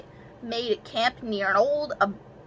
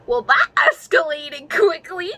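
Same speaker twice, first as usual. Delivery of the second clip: higher and louder ironic quip; amused disbelief; 8 semitones higher, 5 dB louder than usual. Real, not acted. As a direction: toss off the irony, amused. Reacting to her own story.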